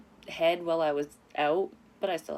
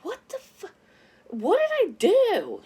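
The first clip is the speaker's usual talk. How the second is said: high, loud, slow mock drunk dad; slurring the angry dad's words, high and loud; hammed-up drunk father; 8 dB louder, slower than usual. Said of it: "father's drunk voicemail quoted".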